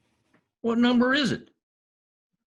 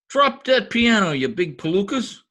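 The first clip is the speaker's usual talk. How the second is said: higher and louder, bellowing at the movers; angry shout; 4 semitones higher, 3 dB louder than usual. Acted. McGee yells at the piano movers, angry shout. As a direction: yell at them to drop it.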